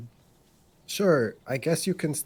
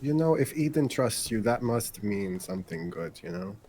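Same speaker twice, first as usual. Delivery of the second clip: understated sarcasm; sarcastic. Acted. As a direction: say it with a dry touch of sarcasm. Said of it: "I say sarcastically".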